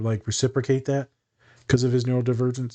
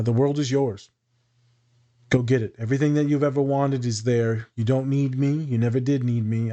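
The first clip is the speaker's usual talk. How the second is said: soft counselor voice. Shown as a demonstration. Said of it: "slow down my speech, soften my voice".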